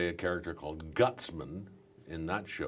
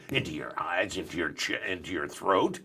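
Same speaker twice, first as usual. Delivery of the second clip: voice climbing up through the body; 3 semitones higher, 4 dB louder than usual. Shown as a demonstration. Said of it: "add a bit of gravel to that".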